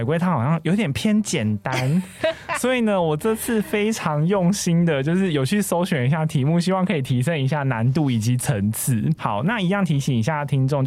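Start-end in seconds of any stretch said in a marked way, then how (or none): 2.6-9.0 muffled behind a mask; through a face mask. Real, not acted. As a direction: talk through a cloth mask. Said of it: "我们现在都戴着口罩录音".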